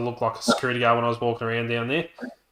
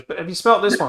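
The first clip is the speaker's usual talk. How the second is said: higher, louder saleslady imitation; imitated sales pitch; 7 semitones higher, 5 dB louder, faster than usual. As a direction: push another sample on a customer, mimicked.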